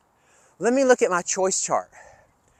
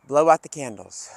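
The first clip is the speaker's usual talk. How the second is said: calm exhale cue; 4 semitones lower, 4 dB louder than usual. Shown as a demonstration. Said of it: "do one more with me".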